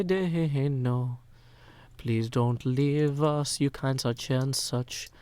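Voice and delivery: slow, drawn-out whiny plea, a touch of put-on voice; mock pleading chat. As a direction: beg him to stay like a sulky crowd, stretching "Dane". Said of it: "We say".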